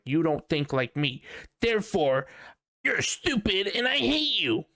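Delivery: high, drawn-up mock outburst; mock angry rant. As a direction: rise into an exaggerated, hateful declaration. Mock hateful rant at others.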